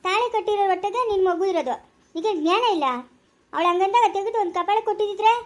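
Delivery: indignant scolding. Acted. Woman berates him over the other woman's claim, scolding. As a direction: berate him for letting it pass.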